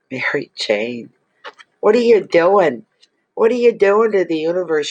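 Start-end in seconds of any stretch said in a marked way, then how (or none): 1.8-4.9 higher and louder, playful disbelief; delighted accusation at the lucky client; amazed. Real, not acted.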